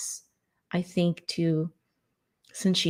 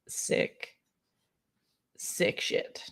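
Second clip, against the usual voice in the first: whispered; 9 dB quieter, much slower than usual. Real, not acted.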